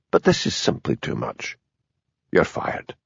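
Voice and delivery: low menacing whisper; whispered fury. A narrator's reading. Superintendent firing Hamish, in a furious whisper. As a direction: breathe the verdict coldly. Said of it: "in the quiet voice he used when he was really furious".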